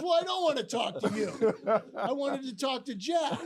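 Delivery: imitated irate boss, loud and high; getting on him. Boss demanding Jack from his manager, scolding. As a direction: scold loudly, as a retold tirade. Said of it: "he started getting on me".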